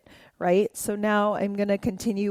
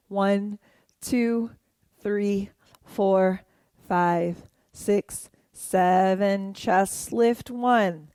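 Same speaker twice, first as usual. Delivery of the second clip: dance count; much slower than usual. Shown as a demonstration. Counting along to dance moves.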